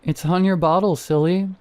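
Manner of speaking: giggling. Acted. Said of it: "she giggled".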